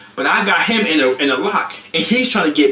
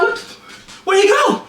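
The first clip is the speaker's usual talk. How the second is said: high-pitched baffled exclamation; exaggerated squeaky confusion; mock bewilderment; slower than usual. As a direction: act out searching in disbelief. Acts out looking for brother.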